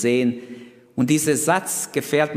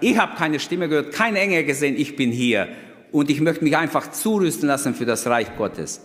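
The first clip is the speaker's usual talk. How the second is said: higher, breezy and offhand, like it's a game; cocky classmate; 5 semitones higher than usual. Retold or imitated. The cheeky classmate answering the teacher, breezy and offhand. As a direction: toss it off lightly, as if nothing's at stake. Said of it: "der hat gesagt".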